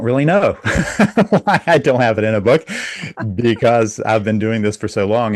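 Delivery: laughing through an embarrassed admission; light laugh breaking into the words. Retold or imitated. Telling the client she had no good reason, laughing. Retelling her own answer.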